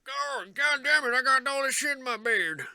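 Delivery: high, strained grumbling character voice; startled stone figure. Acted. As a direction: grouse in a high put-on voice. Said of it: "He's like".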